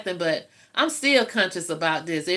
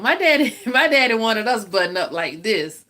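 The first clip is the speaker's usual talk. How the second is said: laughing outburst; 4 dB louder than usual. Real, not acted. Telling viewers about her strict daddy, laughing loudly.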